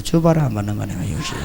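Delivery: low, soft private aside; inner thought. Retold or imitated. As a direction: mutter it to yourself, a secret dig. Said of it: "내 속으로". (속으로 낮게 중얼거리듯)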